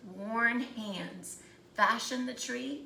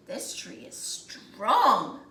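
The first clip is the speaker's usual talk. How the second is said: slow and louder, weighty; sturdy woodcutter; 6 dB louder, slower than usual. Acted. Second woodcutter sizing up the tree, slow and firm. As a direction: lean on it like a verdict.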